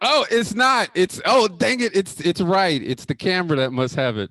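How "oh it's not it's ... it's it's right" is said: loud, embarrassed "oh, dang it" at a higher pitch; flustered surprise. Real, not acted. Caught with his shirt on backwards, loud and flustered. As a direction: caught off guard, louder and higher.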